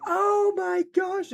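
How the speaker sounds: high, loud, drawn-out "oh"; hammed-up delighted mom exclamation; gushing mom. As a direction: stretch it out, very high and slow. Acted mom gushing in cutscene.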